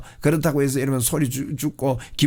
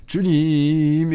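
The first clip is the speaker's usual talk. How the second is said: proclaiming prayer; much slower than usual. Shown as a demonstration. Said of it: "치유를 선포하면서".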